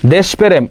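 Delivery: দেশপ্রেম said desh-perem; rejected pronunciation. Shown as a demonstration. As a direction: run desh straight into a split pe-rem in দেশপ্রেম. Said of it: "এটা তো আগেই বাদ".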